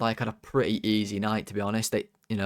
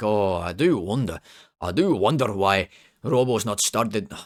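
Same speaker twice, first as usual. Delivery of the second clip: poor attempt at a put-on Scottish accent; 4 dB louder than usual. Imitating a pundit who complains about a benched player: bad scottish accent. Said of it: "Scottish is bad".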